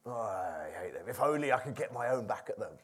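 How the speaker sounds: a lightly voiced bitter Joseph, whispering; bitter brooding whisper. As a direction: seethe it under your breath. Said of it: "Imagine it every day".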